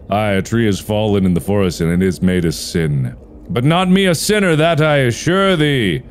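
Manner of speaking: woodcutter into a squeaky tree. Acted. Woodcutter and tree voiced in game.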